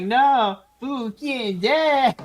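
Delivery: imitated crowd protest. Podcaster mimics fans of an interrupted Fugekin, mock protest. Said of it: "you heard the crowd".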